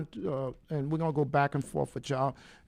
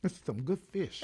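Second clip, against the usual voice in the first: chewing while talking; 5 dB quieter than usual. Real, not acted. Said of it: "what is that?".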